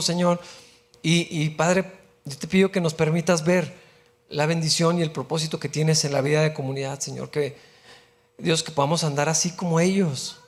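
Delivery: prayer voice, earnest and steady; oración. Acted. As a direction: pray over the congregation, softening toward the end. Closing prayer after the sermon. (oración pastoral serena que se apaga al final)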